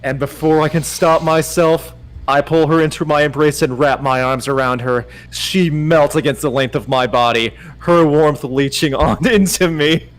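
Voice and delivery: measured romance audiobook narration; story narration. Acted. Narrator reading a romance to Dom, measured storytelling. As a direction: read the love scene deliberately. Reads a romance novel aloud.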